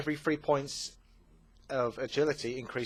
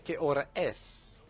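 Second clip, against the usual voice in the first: put-on trying out a Spanish accent in Spanish; lightly put-on Spanish accent; 3 semitones higher than usual. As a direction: practise sounding like a Spaniard. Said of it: "I'm trying to do Spain".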